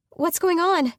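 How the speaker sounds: loud, high alarmed shout; alarmed call. Acted. Woman in bed shouts to her sister outside, alarmed. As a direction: shout the question through the door. Calling to sister through door.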